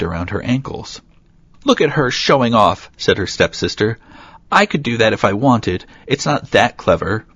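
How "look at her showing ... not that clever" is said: lightly voiced spiteful stepsister; jealous sneer.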